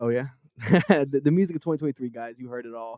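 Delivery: ordinary delivery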